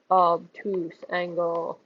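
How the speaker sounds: slow, slightly deepened voice; deep voice. Shown as a demonstration. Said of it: "say it in a deep voice".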